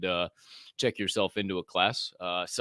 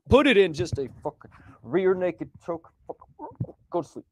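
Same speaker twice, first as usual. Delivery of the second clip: playful reenacted finisher; mock fight call; 8 semitones higher than usual. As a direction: sell the submission like a fight announcer. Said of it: "a rough reenactment".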